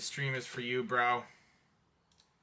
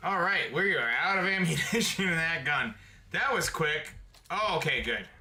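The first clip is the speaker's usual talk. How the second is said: tense excited gamer; 5 semitones higher, 4 dB louder than usual. Real, not acted. Out of ammo mid fight.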